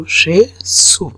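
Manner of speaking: সে সু split into two slow, separate syllables. Shown as a demonstration. Teacher sounding out সে সু slowly for the class. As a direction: break সে সু apart, slowly. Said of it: "উচ্চারণটা".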